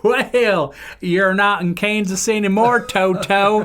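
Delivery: loud, high, crazed cashier voice; hysterical cashier. Retold or imitated. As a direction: crow it out high like a madman. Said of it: "starts laughing hysterically and goes".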